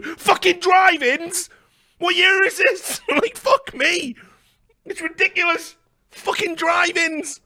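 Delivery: high, loud disbelief; outraged high ranting about the drive-ins; incredulous rant. Real, not acted. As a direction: shout out the outrage, half laughing.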